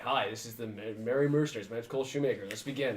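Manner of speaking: lightly voiced host intro; a hint of a show host opening; Mercer intro. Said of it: "I'm gonna do a Mercer and be like".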